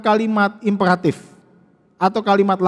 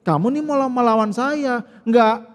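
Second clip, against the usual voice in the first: softer, contemptuous sneer at Jesus; belittling demon taunt; 4 dB quieter than usual. Acted. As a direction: talk down to him like a village nobody. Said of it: "untuk merendahkan Tuhan Yesus".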